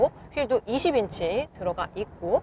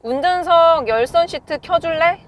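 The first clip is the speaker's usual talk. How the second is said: higher, louder command to the car; talking to voice assistant; 6 semitones higher, 6 dB louder than usual. Real, not acted. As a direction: speak up for the voice assistant. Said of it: "차량의 기능들을 한번 제어를 해볼까요".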